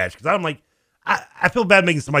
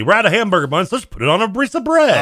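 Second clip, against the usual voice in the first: imitated mom; 8 semitones higher, 4 dB louder than usual. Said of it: "there's always the".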